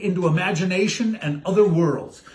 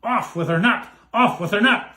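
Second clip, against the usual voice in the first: mock cry. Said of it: "The prince cried".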